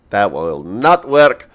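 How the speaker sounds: put-on Russian accent, leaning on not; slow mock Russian, stress not. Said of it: "As to why I'm doing a Russian accent".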